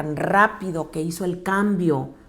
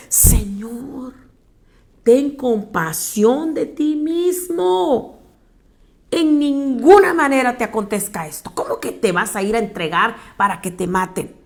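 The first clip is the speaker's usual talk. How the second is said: pleading rebuke; 3 semitones higher, 3 dB louder than usual. Acted. Pedro regaña a Jesús.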